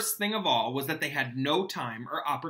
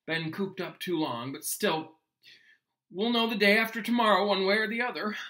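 Hagrid; 6 semitones higher, 4 dB louder than usual. Acted. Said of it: "Hagrid told them".

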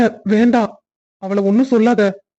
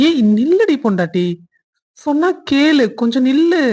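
raised-pitch teasing call to stop; playful call; 4 semitones higher than usual. Acted. Husband chases his laughing wife, playful and raised. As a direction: call after her in mock command, voice up high.

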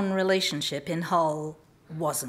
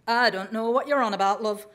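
dismissive. Retold or imitated. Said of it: "telling me dismissively".

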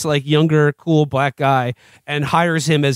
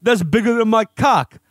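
lightly voiced tough-guy impression, slightly higher; Stallone; 4 semitones higher than usual. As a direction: put on a touch of the movie tough guy. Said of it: "a lot of my Stallone voice".

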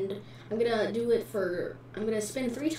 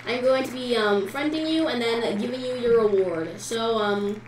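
hyped giveaway announcement; 5 dB louder than usual. Real, not acted.

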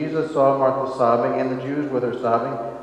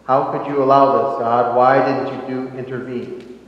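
loud, indignant demand of God; angry cry to God; 6 dB louder than usual. Retold or imitated. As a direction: hurl the question at God in grief. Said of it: "we often get angry with is God".

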